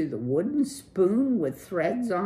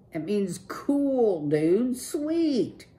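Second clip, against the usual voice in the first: surfer dude; 7 semitones higher, 5 dB louder, slower than usual. Acted. Clutch's dude voice.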